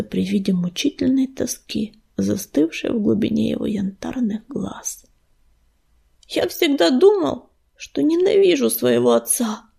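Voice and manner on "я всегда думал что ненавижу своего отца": plain reading voice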